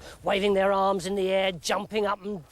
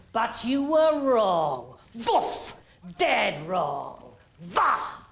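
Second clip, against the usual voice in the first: slow triumphant king; 2 semitones lower, much slower than usual. Acted. King stabs bed gloating.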